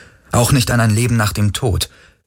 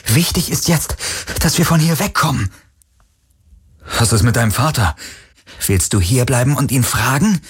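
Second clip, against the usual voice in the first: higher, brisk and pressing; urgent young woman; 5 semitones higher than usual. Acted. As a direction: keep him moving, impatient. Kirai auf der Flucht. (Kirai, höher und drängend)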